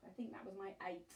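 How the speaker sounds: quick soft aside to herself; whispered aside. Real, not acted. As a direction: mutter it fast, half whispered.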